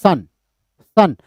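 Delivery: सन as a single pushed beat; stressed syllable demo. Shown as a demonstration. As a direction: press air into each separate सन. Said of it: "अब आप सन बोलिए". (सन पर ज़ोर देकर)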